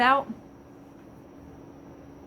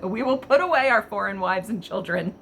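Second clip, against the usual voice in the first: can't keep a straight face reading it; laughing while quoting. Real, not acted. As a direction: quote the verse through real laughter. Reads verse she finds absurdly funny.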